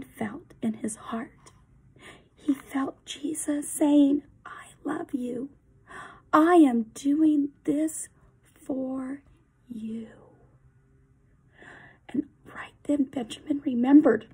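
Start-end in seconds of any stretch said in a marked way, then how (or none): 4.4-10.1 tender. Acted. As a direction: soothe him with love. Jesus speaks in Benjamin's heart.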